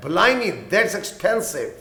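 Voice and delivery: very slow, clear teacher's read; slow example line; slow model sentence. Shown as a demonstration. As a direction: drag out each word for learners. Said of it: "یہ تو بہت مہنگا ہے".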